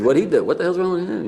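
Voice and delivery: blurted in pretend shock; mock alarm. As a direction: act out a shocked onlooker, pitch leaping up. Acting out startled midshipmen in prank story.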